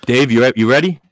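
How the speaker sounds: muffled through a paper bag; host talking from under a bag; paper bag over head. Real, not acted. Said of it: "do the show with this bag on my head".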